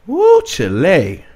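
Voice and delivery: a hammed-up old plantation drawl; mock slavery accent. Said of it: "got my slavery accent on".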